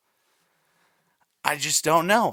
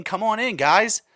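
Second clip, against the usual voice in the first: quoting the host; 4 semitones higher, 3 dB louder than usual. Retold or imitated. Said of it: "Jeff saying".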